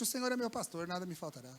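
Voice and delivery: quiet, falling psalm, fading down on faltará; hushed reverent reading of "nada me faltará" with a falling close; soft recitation. Shown as a demonstration. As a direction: murmur the verse as a comfort, letting nada sink low. Reciting psalm to the sick man.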